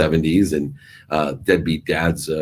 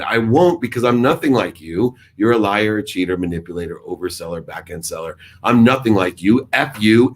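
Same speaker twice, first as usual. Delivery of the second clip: raised, higher voice telling off his father; angry outburst at dad; 4 semitones higher than usual. Retold or imitated. Son shouting at his lying father down the phone, angry.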